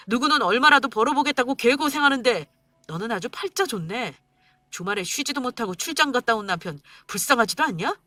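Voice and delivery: bitter mocking rant, rising at the peaks; husband ranting at wife over money; sarcastic angry husband. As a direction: jeer at her spending.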